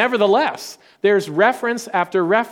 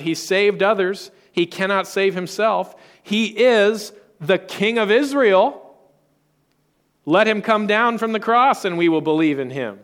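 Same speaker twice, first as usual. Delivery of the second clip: lightly acted taunt from the crowd at the cross; mock crowd jeer; 4 semitones higher than usual. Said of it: "people shouted".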